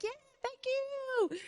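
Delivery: high, slow, coy thanks; drawn-out bashful thanks; bashful high thank-you; flustered. Retold or imitated. Flustered reply to ex.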